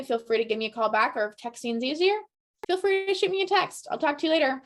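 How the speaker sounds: bright, personal check-in message; friendly voicemail. Shown as a demonstration. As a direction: leave it like you really care how she is. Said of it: "Don't just say".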